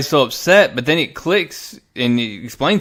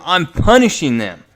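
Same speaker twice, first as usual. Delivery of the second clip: mildly raised voice, louder on the key word; retold shout; 3 semitones higher, 5 dB louder than usual. Thanos answers Frank's accusation of torturing, mock shout. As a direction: give a half-hearted imitation of a shout. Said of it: "Thanos shouts at him".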